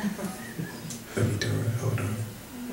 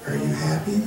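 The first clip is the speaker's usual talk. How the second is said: high, laughing mock caller voice; hammed-up high caller voice; nosy caller; 8 semitones higher, 5 dB quieter than usual. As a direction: squeak out a nosy caller's question. Caller voiced in phone story.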